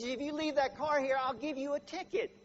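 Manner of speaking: a hint of an officious cop; policeman's warning. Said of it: "And he says".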